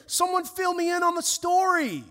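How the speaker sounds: high, loud, re-enacted angry pleading; anger welling up. Father questions God over his daughter, acted-out anger. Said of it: "Anger starts welling up".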